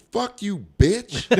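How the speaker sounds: high mock snap at the comic, rising in volume; retold curse-out. Woman in mink coat cursing out the comic, mock angry. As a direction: fire it back like the offended woman. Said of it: "And then she said".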